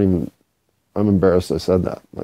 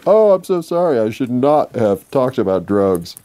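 mock apology; 3 semitones higher than usual. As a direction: fake contrition, played for laughs.

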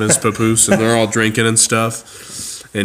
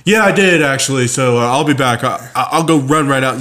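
sheepish dad; 4 semitones higher, 3 dB louder than usual. Retold or imitated. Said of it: "he's like".

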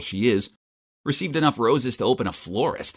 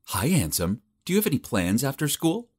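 sultry; 4 semitones higher than usual. Acted. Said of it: "talked to me in this sultry voice".

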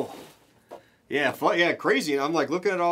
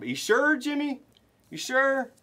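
playful tease; 7 semitones higher than usual. Real, not acted. Teasing the viewer Jimmy.

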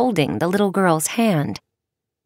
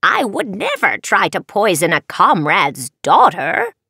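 reassuring in a witchy way; witch voice. Acted. Witch denies poisoning.

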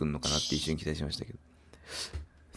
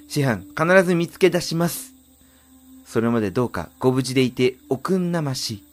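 put-on earnest, raised young swordswoman; young heroine voice; 4 semitones higher, 4 dB louder than usual. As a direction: vow it with resolve.

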